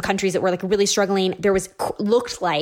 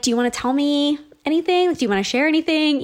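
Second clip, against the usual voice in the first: higher-pitched, careful prompting; coaxing question; 6 semitones higher, faster than usual. Retold or imitated. Wife coaxing her upset husband to share, coaxing. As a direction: gently try to draw him out.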